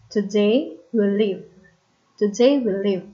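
"Today" with a weak first syllable, stressed second; unstressed then stressed beats in "Today we'll live"; iambic stress. Shown as a demonstration. Teacher giving an example of iamb, "Today" stressed on its second syllable. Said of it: "Iamb is unstressed, followed by stress".

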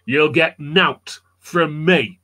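put-on slow, stubborn Yorkshire accent; stubborn Yorkshireman. Yorkshire captive tied to the totem pole, stubborn Yorkshire refusal. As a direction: dig your heels in, drawn-out Yorkshire voice. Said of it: "Yorkshire people can be very, very stubborn".

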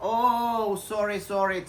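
high-pitched, sing-out "oh, sorry"; mock apology. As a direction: toss off a playful apology to a critic. Acting out his reply to commenter. (แกล้งขอโทษเสียงสูง)

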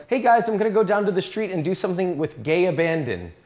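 hammed-up American accent; mock American accent. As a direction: play a cheery American announcing his plans. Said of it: "in an American accent".

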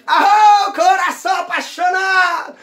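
high ringing party yell, the last words drawn out slowly; joyful high shout of a dad at a barbecue; father's shout. Retold or imitated. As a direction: belt it out like a drunk dad singing along. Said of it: "meu pai já manda aquele grito".

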